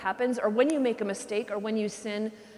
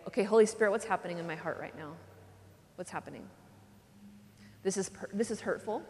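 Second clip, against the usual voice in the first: quiet prayer; 2 semitones lower, 5 dB quieter than usual. Shown as a demonstration. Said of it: "would be to say".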